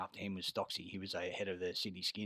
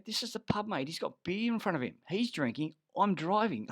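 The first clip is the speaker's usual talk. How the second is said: exasperated retort; 10 semitones higher, 5 dB louder than usual. Retold or imitated. Retold argument.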